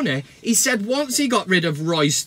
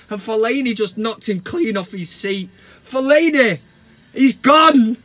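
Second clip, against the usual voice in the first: higher and louder, a gleeful rant; excited rant; 5 semitones higher, 3 dB louder than usual. Acted. Host listing Fellaini's blunders to fans, gleeful and loud. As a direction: pile on the blunders with mounting glee.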